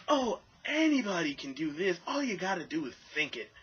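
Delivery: high mocking sing-song. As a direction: mimic them as smug and clueless. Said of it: "they say dumb things like".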